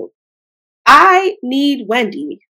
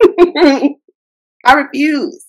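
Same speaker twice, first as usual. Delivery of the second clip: laughing refusal; 2 semitones higher, 4 dB louder, much slower than usual. Real, not acted. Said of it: "You better not cry".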